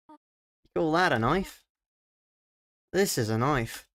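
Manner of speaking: a lightly done, half-hearted Australian accent, a mock Crocodile Dundee swagger; a hint of an Australian accent, barely shifted from the own voice; terrible Australian accent. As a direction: toss off a weak Aussie accent, knife-quote style. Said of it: "that's probably a terrible Australian".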